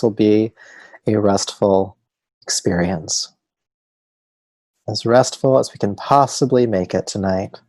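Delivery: calm, unhurried meditation guidance with long pauses; measured yoga nidra instructor voice; guided meditation. Real, not acted. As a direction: settle listeners gently into rest, leaving space between phrases.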